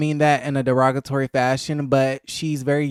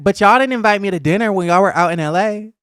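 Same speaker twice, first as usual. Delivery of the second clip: Bria's clapback; 7 semitones higher, 4 dB louder, faster than usual. Retold or imitated. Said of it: "And then Bria was like".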